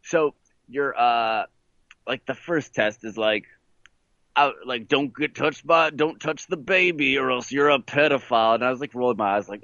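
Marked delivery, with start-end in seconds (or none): 4.9-8.5 lightly imitated hillbilly cop. Prison cop warning about the first test, light hillbilly imitation. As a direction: give the warning a hint of Southern lawman. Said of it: "a hillbilly cop voice comes on".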